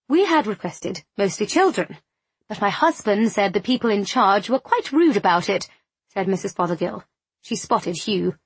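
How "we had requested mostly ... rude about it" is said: lightly voiced fussy lady, lilting emphasis; a hint of a put-out committee wife; agitated society lady. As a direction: complain with a touch of affronted fluster. Narrator voices agitated Missus Fothergill.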